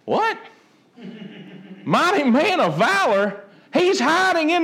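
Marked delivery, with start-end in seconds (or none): 0.0-0.4 a high, disbelieving yelp; incredulous what. Acted. Preacher mocking the title given to Gideon: high incredulous yelp. Preacher reacts to "mighty man. 1.0-3.4 chuckling, repeating the title in disbelief; laughing disbelief. Acted. Preacher scoffing at Gideon's title: laughing disbelief.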